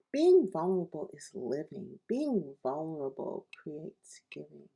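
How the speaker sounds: poem reading. Acted. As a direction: lean on each "Being" like a chant. Reads her own poem aloud.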